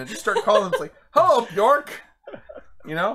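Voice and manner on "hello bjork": high, loud, laughing hello; pretend phone greeting. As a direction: cheerily greet a stranger on the phone. Pretend phone call to random Bjork.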